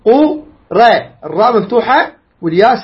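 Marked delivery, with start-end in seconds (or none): 0.0-0.9 قو را said as separate syllables; syllable breakdown. Shown as a demonstration. Teacher points out the vowelled ra, syllable by syllable. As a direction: break the start of قريش into قو, pause, را. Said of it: "لاحظ".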